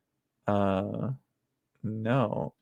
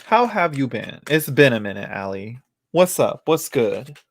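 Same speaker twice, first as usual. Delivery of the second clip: excited greeting; 2 semitones higher, 3 dB louder than usual. Real, not acted. Greeting a viewer enthusiastically.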